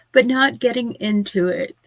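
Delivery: talking through a yawn; words stretched by a yawn. Real, not acted. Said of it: "I don't know why I keep yawning".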